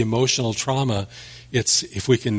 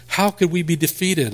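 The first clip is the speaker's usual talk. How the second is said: incredulous, pitched up, asking in shock; mock bewildered protest; disbelieving surprise; 6 semitones higher than usual. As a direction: voice the people's stunned disbelief. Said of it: "like it was some kind of a surprise to them".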